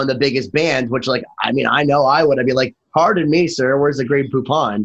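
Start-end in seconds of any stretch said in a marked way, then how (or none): 2.9-4.9 lightly voiced mock gentleman, slowing down. Interviewer imagining himself as a big star, light mock gentleman. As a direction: play at being a grand gentleman, lightly. Acts out a rich star's line.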